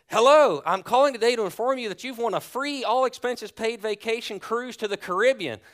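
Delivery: loud, high, over-bright sales pitch; booming prize announcer. Retold or imitated. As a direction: announce the big prize like a telemarketer. Caller announces prize win.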